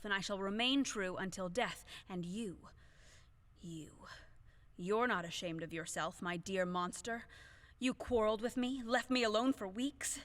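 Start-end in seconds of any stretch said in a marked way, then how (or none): 4.8-10.2 louder, bitter reproach; a wronged wife lashing out; reproachful. Acted. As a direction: scold him for the hurt. Widow reproaching dead husband.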